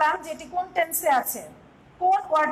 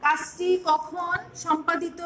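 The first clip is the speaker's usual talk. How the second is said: slow, deliberate dictation; slow dictation pace; dictating slowly; much slower than usual. Shown as a demonstration. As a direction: dictate the definition for notes. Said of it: "সংজ্ঞাটি আমি এইভাবে দিতে চাই".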